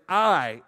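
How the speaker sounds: "I" hit firmly as a word on its own; emphasized, stand-alone "I"; emphatic I. Shown as a demonstration. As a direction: put full weight on "I". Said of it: "emphasizing who I am".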